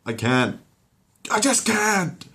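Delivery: high, breaking panic; too scared to move; traumatized whimper. Acted. Logan refusing from the corner, high and panicky. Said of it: "trauma is too great".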